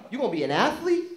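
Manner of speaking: loud, high mocking scold; mother yelling at her son; scolding mom. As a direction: tear into the kid like a fed-up mother. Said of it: "She'd be like".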